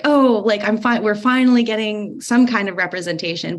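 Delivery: "finally!" with a lift of joy; the thrill of being represented at last, mildly acted; excited relief. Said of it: "It's like".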